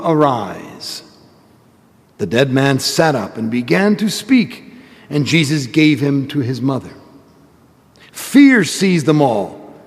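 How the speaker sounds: solemn proclaimed gospel reading. Real, not acted. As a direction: proclaim it from the pulpit. Priest proclaims the gospel at Mass.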